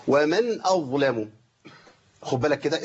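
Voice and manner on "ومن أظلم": ومن أظلم chanted slowly; slow recitation. Shown as a demonstration. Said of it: "واتلقت صلاة حضراتكم". (تلاوة بطيئة)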